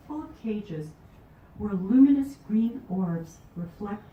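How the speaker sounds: measured recital, phrase by phrase; poetry reading. Acted. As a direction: read it as a poem, leaning into openings and easing off. Reads her poem Escape.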